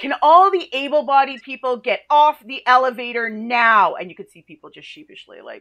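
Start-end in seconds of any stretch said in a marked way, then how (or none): 0.0-4.0 put-on booming call, very loud and slow. Speaker retelling facing a full elevator of able-bodied people, very loud voice. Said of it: "in a very loud voice was like".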